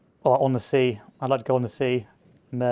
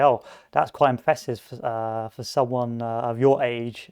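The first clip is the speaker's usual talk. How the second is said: backhanded compliment. Shown as a demonstration. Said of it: "which is sort of a backhanded insult".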